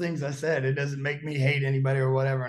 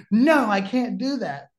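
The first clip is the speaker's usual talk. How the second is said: high, loud no as Bobby; high agitated refusal; 6 semitones higher, 5 dB louder than usual. Retold or imitated. Bobby insisting to Lance, high and loud. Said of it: "Bobby answers Lance".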